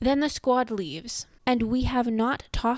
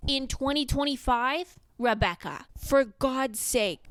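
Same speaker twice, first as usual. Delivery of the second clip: exasperated; 5 semitones higher than usual. Real, not acted. Exasperated at author.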